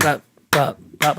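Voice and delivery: popped-out triplet beats; demonstrated rhythm. Retold or imitated. Musician showing a student the triplet, spoken rhythmic pops. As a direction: mouth the rhythm as short pops. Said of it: "So that sound, that rhythm".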